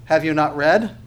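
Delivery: a pointed, mildly mocking question; sarcastic Jesus. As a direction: tease the lawyers lightly. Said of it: "Now that's sarcastic".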